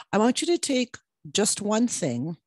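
normal talking voice

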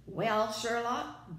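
loud, slow booming voice. A narrator's reading. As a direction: boom it out slowly. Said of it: "boomed the farmer".

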